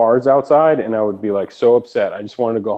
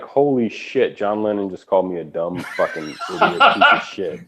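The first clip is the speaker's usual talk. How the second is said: laughing disbelief; 3 semitones lower, 4 dB quieter than usual. Retold or imitated. Engineer's stunned reaction.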